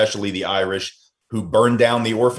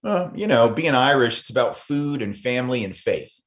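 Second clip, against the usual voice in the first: Irish interviewee quote; 3 semitones higher than usual. Retold or imitated. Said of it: "I had people say to me".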